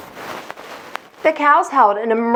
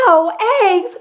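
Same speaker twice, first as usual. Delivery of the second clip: high, louder shocked cry; cried in dismay; 8 semitones higher, 3 dB louder than usual. Acted. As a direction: yelp it in outrage. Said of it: "cried Farmer Brown".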